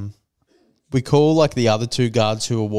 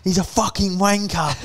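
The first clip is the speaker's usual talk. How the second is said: high-pitched retold yell, no real extra volume; mock yelling; 7 semitones higher than usual. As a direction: imitate an angry drunk, pitched up. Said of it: "he's yelling at him".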